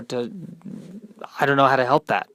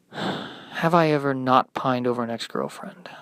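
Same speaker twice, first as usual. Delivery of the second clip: glum echo; 5 dB quieter than usual. Acted.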